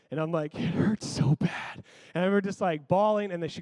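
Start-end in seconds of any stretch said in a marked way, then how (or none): 0.6-1.8 slow, whispered mock whimper; voiceless, pained retold whine; imitated tearful whimper. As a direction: squeeze it out like a child trying not to cry. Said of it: "I'm still crying".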